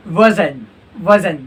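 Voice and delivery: "वजन" with no final t; native-style WASN'T. Shown as a demonstration. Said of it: "आप इस तरह बोलना".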